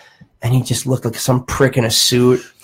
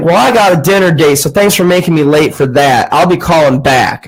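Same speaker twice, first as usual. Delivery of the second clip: lightly imitated huffy Southern caller; a touch of irate old Southern man; Southern accent; 3 semitones higher than usual. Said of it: "he had a southern accent".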